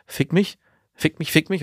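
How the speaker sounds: mock woman's plea. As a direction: imitate her begging lightly. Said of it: "eine Frau auch zu dir gesagt". (gespielt flehend hoch)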